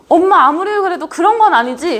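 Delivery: lightly acted angry daughter. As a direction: protest to mom with a touch of anger. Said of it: "엄마한테 화를 내".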